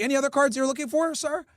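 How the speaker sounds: polite clerk. Retold or imitated. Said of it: "he'd be like".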